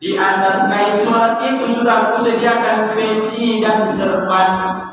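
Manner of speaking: slow, sing-song flattery; sweet flattering wife. Pretend. Wife gently flattering her husband toward the mosque. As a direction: croon the praise lovingly. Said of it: "dengan bahasa yang lembut".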